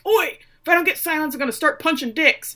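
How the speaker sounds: high, loud mock bellow; imitated scream. Scary player in the locker room to laughing teammates, imitated scream.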